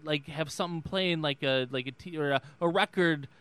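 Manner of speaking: lightly imitated politician losing the thread; tumbling false starts and fillers in a rambling debate cadence; Joe Biden. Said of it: "that was exactly what Joe Biden said".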